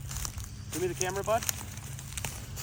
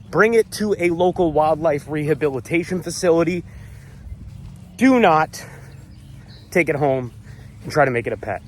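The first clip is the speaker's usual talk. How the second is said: out of breath; 4 semitones higher than usual. Real, not acted. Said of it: "I'm out of breath".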